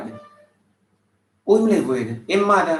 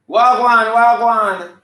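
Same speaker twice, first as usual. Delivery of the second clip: 1 loud mock greeting; 3 semitones higher, 4 dB louder, slower than usual.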